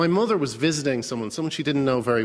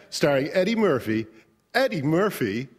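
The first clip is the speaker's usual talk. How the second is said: movie trailer announcer, building to a high squeal on the last name; overexcited trailer voice; 6 semitones higher than usual. Retold or imitated. Guest mocks the overexcited trailer guy, building trailer announcer voice. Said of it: "the trailer guy gets really overexcited".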